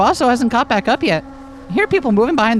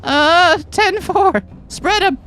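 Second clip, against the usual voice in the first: cop voice; 5 semitones higher, slower than usual. Acted. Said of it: "Say something in cop".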